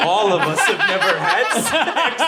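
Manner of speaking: giggling through a quoted line; amused mock quote; laughing mock repeat. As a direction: laugh while twisting her words.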